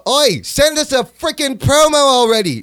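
high, hammed-up British demand; mock British callout. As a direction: call them out in a put-on British accent.

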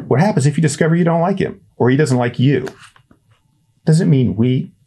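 high, fast, pressing questions; two boys arguing on the trail; heated kid argument. Acted. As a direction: push back urgently.

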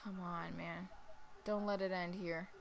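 real nervous murmur; hushed pleading. Real, not acted. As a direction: beg under your breath. Pleading before a decisive shot.

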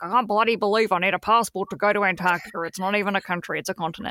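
lightly voiced grumpy dad; a hint of a grumbling father. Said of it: "grumpy dad voice".

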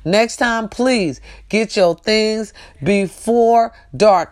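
slow, patient advice; slow it down, talk kindly; gentle advice. Retold or imitated. Advising the old lady in the lot, slow and patient. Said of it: "gentle advice to lady".

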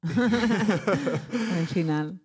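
slow words coming out of a laugh; laugh, then repeat it amused. Real, not acted. Host amused by the guest's ending, laughing.

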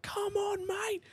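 high yelling bogan heckle; crowd heckle. Retold or imitated. Crowd heckles the drivers, high mocking yell. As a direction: call out high like a rowdy crowd. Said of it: "they're just yelling at you like".

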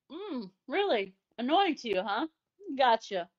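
mock-knowing teasing. Retelling how they teased an annoyed partner, mock-knowing. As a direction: feign interest as you relish the discovery.

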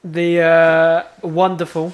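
mock fanfare announcing the segment; mock grand intro. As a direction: sell the segment like a showman. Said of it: "I wouldn't say wonderful".

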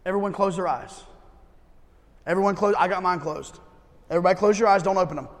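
soft, calm instructions; quiet guiding voice. Acted. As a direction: lead them gently. Guiding eyes-closed exercise.

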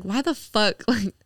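lightly laughed, incredulous retold question; retold laughing disbelief. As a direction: recall asking it through a laugh. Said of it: "I was just laughing the whole time".

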